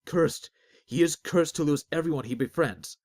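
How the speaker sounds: high, loud cry of cursed; loud accusation. Acted. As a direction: denounce him at the top of your voice. Crowd accuses Azric loudly.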